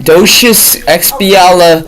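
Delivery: "Docious expiala-" said slowly in reversed chunks, laughing; word sounded out back to front, slowly, laughing; backwards speech. Shown as a demonstration. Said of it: "Can you say it backwards?".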